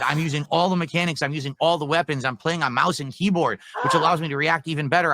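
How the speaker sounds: furious rant at the haters; angry, swearing tirade; raging gamer. Real, not acted. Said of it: "Yep, I'm toxic".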